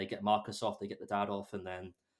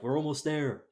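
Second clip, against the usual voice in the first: higher, lightly acted excitement; mock eager announcement; 4 semitones higher, 4 dB louder than usual. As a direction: call it out like a hero nearing the goal. Acting out heroes nearing their goal.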